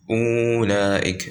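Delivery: أولئك said as ulaika, waw silent; أولئك with no waw sound; أولئك without the waw. Shown as a demonstration. Teacher showing students the silent waw in أولئك. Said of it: "we don't pronounce it".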